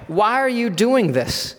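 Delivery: high, slow incredulous question; acted, stunned challenge; shocked disbelief. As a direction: draw out the question in amazement. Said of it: "them being in complete shock".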